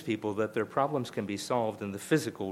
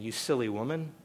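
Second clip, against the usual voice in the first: scornful serpent; 3 dB louder than usual. Retold or imitated. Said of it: "he's also intimating".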